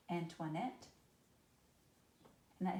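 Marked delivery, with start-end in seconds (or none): 0.1-0.9 Antoinette landing on a rising "nette"; anapest stress. Shown as a demonstration. Teacher helping students remember anapest, Antoinette stressed on "nette". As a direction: stress the last syllable of Antoinette. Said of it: "unstressed, unstressed, stressed".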